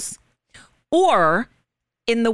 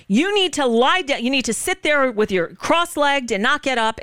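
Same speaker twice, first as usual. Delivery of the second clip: raised pitch, mimicking a cop giving orders; imitated stern order; 4 semitones higher than usual. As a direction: retell the officer's insistent command. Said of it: "talking to him in that tone of voice".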